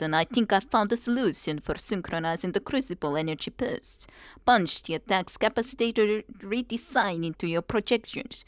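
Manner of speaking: put-on light, half-hearted Russian accent on the email; mild Russian accent. Streamer reading a scientist's email aloud in a mock Russian accent. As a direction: read the letter in a faint Russian accent. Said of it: "I guess that tried to be a little bit of that Russian accent".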